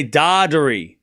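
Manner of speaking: Dardiri said slowly, falling at the end; demonstrated pronunciation. Shown as a demonstration. Showing chat how Italians say it, demonstrated pronunciation. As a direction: sound out Dardiri deliberately as a name. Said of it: "In Italy, we say".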